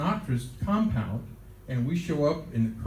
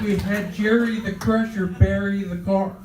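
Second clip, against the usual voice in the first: louder New York gangster punchline; raised-voice gangster accent; 5 semitones higher, 4 dB louder than usual. Retold or imitated. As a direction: imitate a mobster delivering the topper, pitched up. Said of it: "He had a heavy gangster accent".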